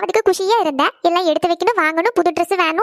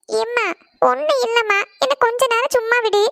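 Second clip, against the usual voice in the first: higher-pitched, upset plea; tearful; 4 semitones higher than usual. Acted. Crying daughter begging mother to leave her be, tearful. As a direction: plead tearfully to be left alone. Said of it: "எதுக்கிட்டே அழுதுட்டு இருக்க".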